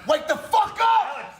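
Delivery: slow, loud wake-up yell; angry shout. Acted. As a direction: bark it to wake him. Sketch, yelling to wake someone.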